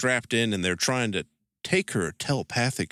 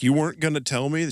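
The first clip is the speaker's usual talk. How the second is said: quick, raised mock indignation; pissed off; 5 semitones higher, faster than usual. Girlfriend learns she wasn't told, mildly pissed retelling. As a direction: imitate an affronted girlfriend, pitched up. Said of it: "She's, like, pissed at him".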